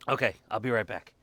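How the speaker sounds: hiccuping while talking; hiccups. Real, not acted. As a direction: talk through hiccups. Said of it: "I'm hiccuping now".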